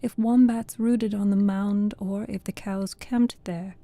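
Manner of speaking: measured, even poetry reading; poem recitation. Acted. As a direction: read the verse aloud in steady metre. Reads a poem aloud.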